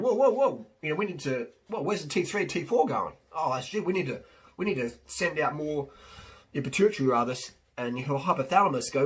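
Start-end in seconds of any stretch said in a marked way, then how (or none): 0.0-5.9 alarmed thyroid. Retold or imitated. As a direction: play the thyroid raising the alarm. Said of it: "your thyroid's going".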